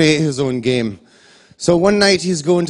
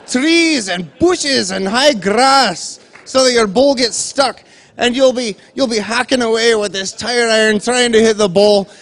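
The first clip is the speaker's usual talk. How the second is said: excited inventor; 6 semitones higher, 4 dB louder than usual. Retold or imitated. Charlie pitching his game idea.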